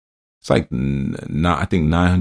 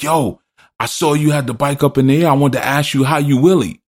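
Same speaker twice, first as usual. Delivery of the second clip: higher, casual voice of a clueless rider; the other biker; 8 semitones higher than usual. Retold or imitated. Reckless biker explaining himself, higher clueless voice. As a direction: play the guy who just wanted to ask. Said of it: "He was like".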